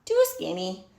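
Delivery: pig voice. Acted. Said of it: "said Pig".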